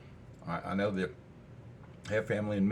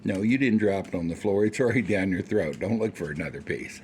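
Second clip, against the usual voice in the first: loud, teasing talk to the dog; loud doggy talk teasing the dog; 7 dB louder than usual. Real, not acted. Still talking to the dog.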